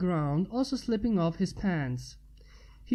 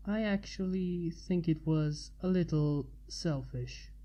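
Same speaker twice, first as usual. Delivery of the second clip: much softer, sheepish admission; quietly; 3 semitones lower, 6 dB quieter than usual. Acted. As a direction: say it low and quiet. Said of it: "he said quietly".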